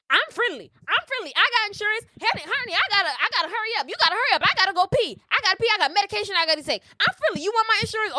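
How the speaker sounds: put-on high, fast, fussy old lady pleading; hammed-up frantic old woman; mocking the old woman. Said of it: "singing a completely different tune".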